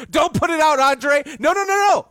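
urgent no. Real, not acted. Stopping producer from playing clip.

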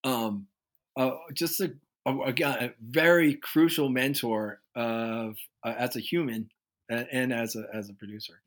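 real grief for a lost mentor, held in; getting emotional. Real, not acted. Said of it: "I'm getting a little emotional".

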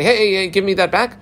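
lightly acted husband wanting it returned; calling after someone. Husband running after the messenger, calling him back.

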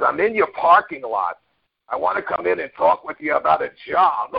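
lightly imitated grumbly ex-boss; hint of a rocky-voiced caller. Former boss phoning to ask for a job, lightly grumbly. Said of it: "it was a real grumbly, rocky voice".

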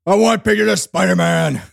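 a hint of a pushy New York exec; lightly voiced record exec; Zoots McKenzie. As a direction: demand it in a light gruff voice. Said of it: "You can be Zoots McKenzie too".

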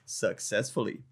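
"Successfully" said slowly in mock quotes; air-quote sarcasm. Shown as a demonstration. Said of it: "These are air quotes".

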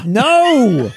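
high, helpless laugh; cracking up at the joke. Real, not acted. Host cracking up at the co-host's accent joke, laughing.

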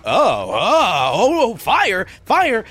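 high loud panicky cries of fire; panicked crowd. Acted. Kids in the crowd reacting to the fire shout, high panicky cries. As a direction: yelp like scared kids. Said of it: "people start to, like".

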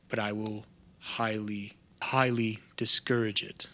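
lightly voiced, deliberate assurance with long pauses; a hint of stern formality, held back and careful; measured stern contact. Contact promising no harm to her, mildly stern.

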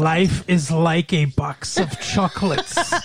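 slow mock Southern, oddly Eastern European; botched Southern accent. Teasing co-host's failed film quote, slow botched accent. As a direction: drag out a bad Eastern European-sounding drawl. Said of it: "Sounded Eastern European".

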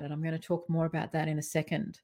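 ordinary delivery

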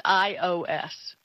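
I O S said slowly as three letters, eye oh ess; I O S spelled out. Shown as a demonstration. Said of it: "actually the way it's pronounced".

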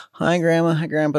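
high, chirpy hello; chirpy greeting. Retold or imitated. Child greeting the grandparents in passing, high and chirpy.

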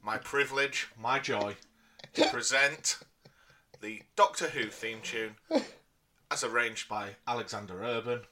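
grand showman announcement; ringmaster. Acted. Grand introduction of the performance.

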